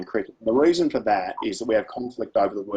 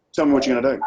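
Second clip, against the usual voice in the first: mum demanding; 3 semitones higher, 5 dB louder, much faster than usual. Retold or imitated. Mum quizzing teenage son.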